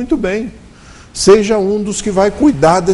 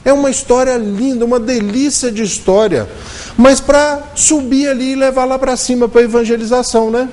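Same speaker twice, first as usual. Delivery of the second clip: higher, sweetly admiring voice; mock the naive listeners' delight; lightly voiced enthusiastic listeners; gushing praise; 4 semitones higher than usual. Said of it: "pararam e falaram assim".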